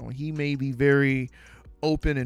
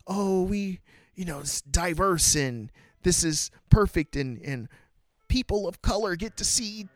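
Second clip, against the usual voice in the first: lightly mocking, higher, prissy self-congratulating tone; a hint of sarcastic imitation; 4 semitones higher than usual. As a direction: parody the smug diversity pitch. Mocking progressive studio talk.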